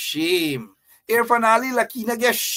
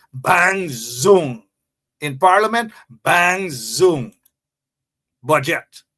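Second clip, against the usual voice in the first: Ralph Honeymooners threat; 4 dB louder, slower than usual. Retold or imitated. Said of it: "as the honeymooners, who is it? Ralph?".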